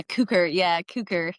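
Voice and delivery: "cooker" echoed with a long oo; "cooker" with a long oo vowel; local pronunciation. Shown as a demonstration. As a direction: repeat "cooker" the local way, oo as in "food". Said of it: "and they say".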